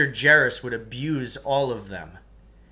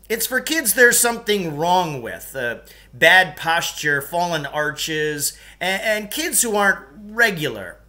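gym teacher coaxing; 3 semitones higher, 5 dB louder than usual. Acted. Gym teacher in his office.

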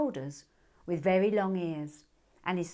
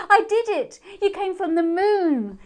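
very high, loud joyful cry; a child thrilled her wish came true; laughing triumph; 11 semitones higher, 11 dB louder than usual. A narrator's reading. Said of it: "she laughed".

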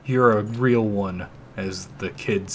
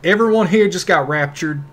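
louder, higher excited outburst; excited exclamation; 7 semitones higher, 7 dB louder than usual. Real, not acted. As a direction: blurt it out amazed. Reacting to game scene.

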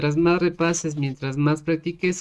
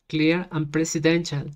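pronunciation practice. Shown as a demonstration. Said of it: "quiero ver cómo se pronuncia".

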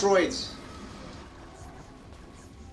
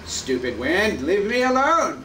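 shouting at the wind; 6 dB louder, slower than usual. Pretend. Yelling at the wind in game.

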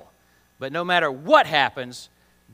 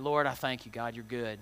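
mock praise; 5 semitones lower, 7 dB quieter than usual. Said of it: "be like".

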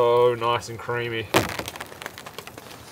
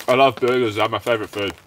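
mouth full; 2 semitones lower than usual. Real, not acted. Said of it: "Sorry for eating with my mouth full".

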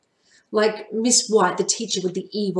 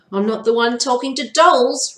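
retorting; 4 semitones higher, 5 dB louder than usual. Acted. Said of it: "retorted Marty".

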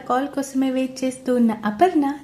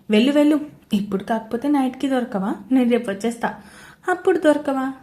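holding back laughter; 2 semitones higher, faster than usual. Acted. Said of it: "అడిగాడు దేవ్ నవ్వు ఆపుకుంటూ".

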